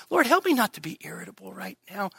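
quick whispered plea; whispered prayer. Acted. Preacher acting out a whispered prayer against irritability. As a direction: whisper it urgently to God.

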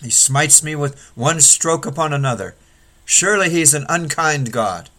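aggrieved wail at losing everything; bitter outcry. Acted. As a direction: cry out against God in grief. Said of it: "to cry out".

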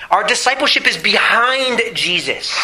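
BEHIND stretched out and emphasized; stress on BEHIND. Real, not acted. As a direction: hit the word "behind" firmly. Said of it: "I emphasize the word behind".

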